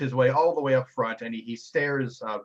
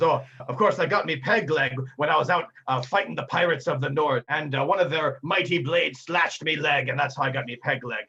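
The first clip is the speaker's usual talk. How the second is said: a hint of pirate sailor dialect; lightly voiced old sea dog; 3 semitones higher than usual. Sailor explaining his peg leg to a lad, lightly voiced sea dog. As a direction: tell a tall tale as a lightly played salty sailor.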